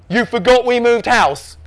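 high, loud, slow disbelief; incredulous. A narrator's reading. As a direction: question your son as if it's unthinkable. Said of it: "increasingly incredulous".

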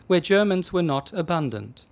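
plain reading voice

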